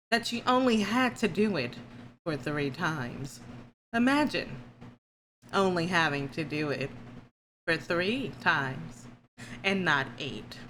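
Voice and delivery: sarcastic. Real, not acted. Jealous teasing.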